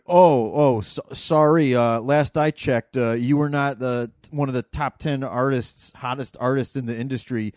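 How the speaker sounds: loud, slow, offended scolding; indignant rant. Retold or imitated. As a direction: act out an offended fan.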